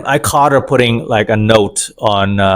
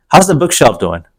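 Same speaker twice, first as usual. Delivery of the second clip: sarcastic dig; 3 semitones higher than usual. Retold or imitated. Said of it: "giving her a little bit of dig".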